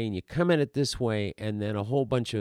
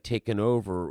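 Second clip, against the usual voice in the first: zombie. Acted. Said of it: "you're not a zombie".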